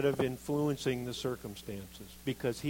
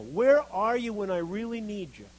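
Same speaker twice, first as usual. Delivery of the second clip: much louder, higher take of the plea; loud desperate plea; 7 semitones higher, 7 dB louder than usual. Acted. Abandoned believer demanding God answer, loud and desperate.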